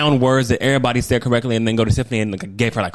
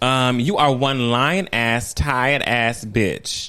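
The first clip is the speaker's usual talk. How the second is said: 1 sassy post read; slower than usual. Retold or imitated. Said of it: "and Tiffany said".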